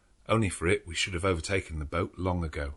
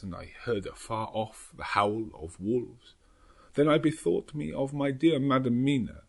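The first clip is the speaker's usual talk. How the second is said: put-on higher old Dutch professor, grave and haunted; Van Helsing voice; 8 semitones higher than usual. A narrator's reading. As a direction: tell it as the shaken old vampire hunter. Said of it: "Doctor Van Helsing's memorandum".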